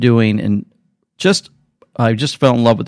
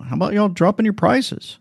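lightly quoted friendly nudge, higher and softer; a kind request in a higher voice; kind suggestion; 10 semitones higher, 4 dB quieter than usual. Retold or imitated. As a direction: ask it gently, no anger. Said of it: "he does it in a kind way".

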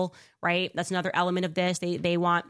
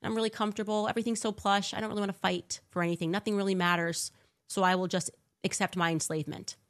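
mock complacent whine; 3 semitones higher than usual. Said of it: "we're just gonna be like".

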